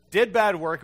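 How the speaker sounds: bad punched loud and high with a laugh; half-laughing, mock indignant burst; mock outrage. Pastor mocking a customer's complaint about bad work, loud and half-laughing.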